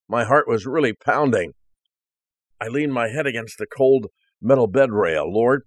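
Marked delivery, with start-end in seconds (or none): 5.3-5.6 prayer. Retold or imitated. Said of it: "I prayed".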